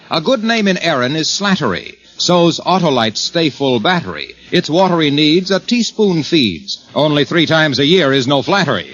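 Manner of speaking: sing-song rhyming ad verse; limerick recital. Acted. Pitchman reciting a limerick to his pal, sing-song. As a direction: bounce the rhyme like a jingle.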